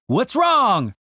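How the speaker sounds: high, urgent question; alarmed cry. Acted. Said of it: "cried Randy".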